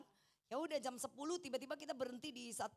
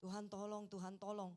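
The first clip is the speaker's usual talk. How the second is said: low, soft repeated plea; a small private prayer; silent inner prayer; 4 semitones lower, 5 dB quieter than usual. Retold or imitated. Wife praying in her heart for help, low and soft. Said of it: "Saya berdoa toh dalam hati".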